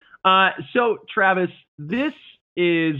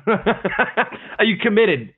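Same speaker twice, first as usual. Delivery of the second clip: Master Splinter voice; 5 semitones higher, much slower than usual. Acted. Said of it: "my master Splinter voice".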